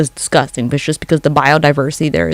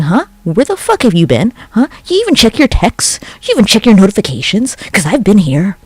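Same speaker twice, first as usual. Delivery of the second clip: higher, accusing mock girlfriend; nagging girlfriend; 4 semitones higher than usual. Girlfriend demanding where her partner has been, accusing. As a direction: grill him like a jealous girlfriend. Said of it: "like a girlfriend being like".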